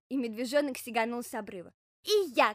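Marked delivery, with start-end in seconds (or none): 2.0-2.5 louder, higher call; hedgehog's eager shout. Acted. Hedgehog following the bear cub down, eager shout. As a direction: chime in with a raised voice. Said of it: "крикнул ёжик".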